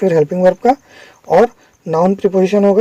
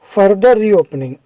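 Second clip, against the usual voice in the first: slow reading; much slower than usual. Shown as a demonstration. Teacher reads the headline word by word.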